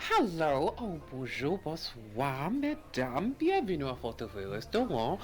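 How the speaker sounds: lightly hammed-up French host greeting; fake French accent. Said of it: "with your fake-ass French accent".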